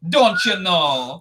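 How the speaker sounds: put-on slow, drawn-out botched Wisconsin accent; half-hearted, slow Wisconsin impression; bad Wisconsin accent. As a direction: stretch out a clumsy Wisconsin attempt. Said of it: "It's so bad".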